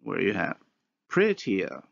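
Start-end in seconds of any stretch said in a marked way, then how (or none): 1.1-1.8 PRETTIER with a Y glide between the last two vowels; inserted glide. Shown as a demonstration. Lecturer giving another English example of glide insertion, inserted glide. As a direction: say PRETTIER carefully as "pretty-yer". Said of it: "Same thing happens".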